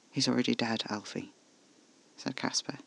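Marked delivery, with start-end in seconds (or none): 0.1-1.3 soft and gentle, breaking bad news; gently. Caspar telling Alfie the man is dead, soft and gentle. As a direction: ease the truth to him softly.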